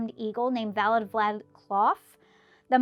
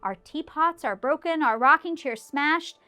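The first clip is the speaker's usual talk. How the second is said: pleading mayor; 5 semitones higher, 5 dB louder than usual. A narrator's reading. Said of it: "pleaded that voice of the mayor".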